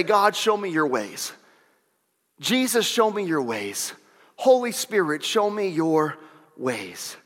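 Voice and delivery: hushed, earnest plea to God; gentle prayer. Acted. Pastor modelling a prayer for the congregation, gently pleading. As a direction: let the prayer soften and sink at the end.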